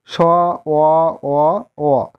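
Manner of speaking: স stretched into a long অ, অ, অ; drawn-out syllable. Shown as a demonstration. Teacher stretches the open syllable স for students. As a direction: hold the vowel of স long: স, অ, অ. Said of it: "আমরা টেনে উচ্চারণ করতে পারি".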